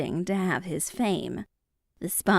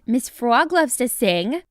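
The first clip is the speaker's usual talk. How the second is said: mildly raised, higher crowd call; higher-pitched storybook shout; 5 semitones higher, 4 dB louder than usual. A narrator's reading. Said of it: "The crowd shouted".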